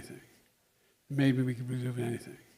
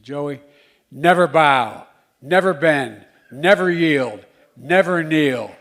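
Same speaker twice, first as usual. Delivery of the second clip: mother's words; 2 semitones higher, 12 dB louder, slower than usual. Retold or imitated. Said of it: "she looked at me and said".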